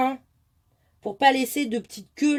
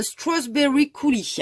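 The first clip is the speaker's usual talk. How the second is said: French-accented English name; 4 semitones higher, slower than usual. Shown as a demonstration. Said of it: "Excusez-moi pour mon anglais".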